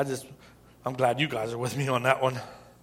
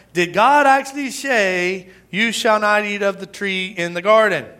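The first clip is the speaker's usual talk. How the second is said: serpent; 4 semitones higher, 5 dB louder than usual. Acted. Serpent voiced in scripture reading.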